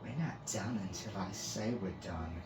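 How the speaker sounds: controlled, measured warning; even, serious tone. Acted. Priestess suddenly stern with Finn, even and serious. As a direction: lay down the rule without raising your voice. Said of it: "she said in an even, serious tone".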